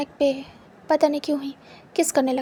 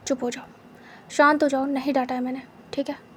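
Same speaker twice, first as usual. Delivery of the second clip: gentle hush; 3 dB quieter than usual. Acted. Holds him to his chest.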